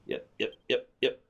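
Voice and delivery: whisper. Acted. Whispered agreement continues.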